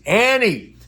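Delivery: high, falling cry of a name; hammed-up high-pitched distress; mock alarm. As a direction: imitate a frantic friend wailing a name. Friend repeats name in alarm.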